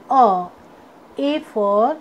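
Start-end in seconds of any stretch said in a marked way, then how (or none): 0.1-0.5 अ as the short "uh" of U; phonic letter sound. Shown as a demonstration. Teacher showing students the sound of U, phonic letter sound. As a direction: sound out अ as a lone short vowel. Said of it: "यू का sound होता है".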